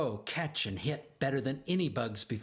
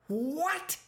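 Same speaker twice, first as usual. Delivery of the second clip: bellowing. A narrator's reading. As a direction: bellow it in outrage. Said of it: "bellowed Pop".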